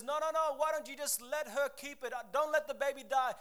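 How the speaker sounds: lightly acted frantic plea; pleading mother. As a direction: plead like a mother saving her child. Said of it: "the real mother cries out and says".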